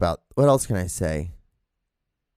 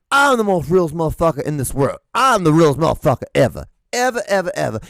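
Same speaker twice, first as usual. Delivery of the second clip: mock bragging; 2 semitones higher, 3 dB louder than usual. Mocking self-styled real people in videos.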